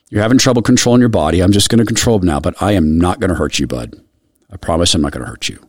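gentle reassurance. Retold or imitated. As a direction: soothe him as you hold him. Gently restraining a frightened boy.

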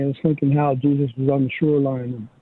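ordinary talk, nothing marked

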